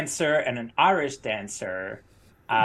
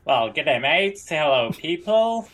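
lightly put-on Australian tour guide; terrible Australian accent. Tour guide greeting visitors in Australia, bad Australian accent. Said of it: "Australian accent".

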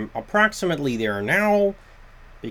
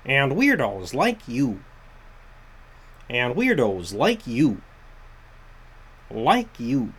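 Kermit the Frog voice. Shown as a demonstration. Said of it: "getting into my Kermit the Frog voice".

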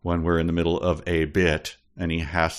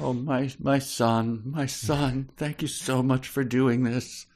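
mock proud parent; 5 semitones higher, slower than usual. Mock parent reading along.

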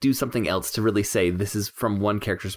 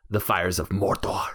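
slow imitation of a shifting film accent with trilled R's; Aragorn's odd accent; 2 semitones lower, slower than usual. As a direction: stretch it out with an accented "Mordor". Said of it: "What happens to his accent".

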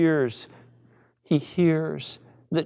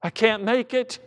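higher, urgent plea, no louder; acted cry of need; desperate crying out; 4 semitones higher than usual. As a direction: plead as if you can't do without. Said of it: "cry out all the louder and say".

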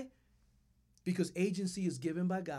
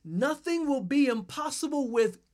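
higher and louder, ringing and rising; proclaimed loud; 6 semitones higher, 6 dB louder than usual. Shown as a demonstration. Pastor proclaiming the verse at full voice to the church. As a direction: proclaim it out to everyone. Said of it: "emphasize each word".

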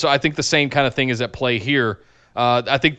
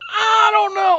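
mock doubter; slower than usual. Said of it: "people were down on it going".

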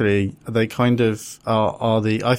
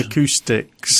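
drawn-out word; slower than usual. Pretend. Testing words for echoey places.

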